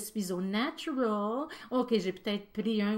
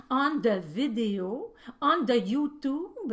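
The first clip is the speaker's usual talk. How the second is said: mock English; 4 dB louder, slower than usual. Mock English for internet terms.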